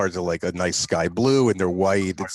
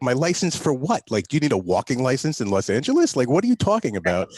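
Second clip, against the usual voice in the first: high, incredulous questions; mock outrage at a walking license; retold disbelief; 6 semitones higher than usual. To the cop, high incredulous mock protest. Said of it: "And I'm like".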